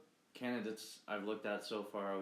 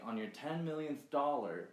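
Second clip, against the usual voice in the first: lightly mimicked crazy, bug-eyed politician, pitched higher; mock a wild-eyed politician in a higher voice; mocking Alexandria Ocasio-Cortez; 5 semitones higher than usual. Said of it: "in her crazy fucking bug-eyed voice".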